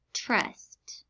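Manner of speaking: whispered word, breathy and soft. Shown as a demonstration. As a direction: whisper it clearly for dictation. Spelling test repeats word.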